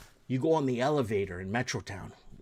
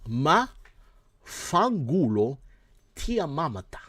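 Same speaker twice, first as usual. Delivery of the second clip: mock Italian; 3 semitones higher, 4 dB louder, slower than usual. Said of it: "I'm gonna translate to you".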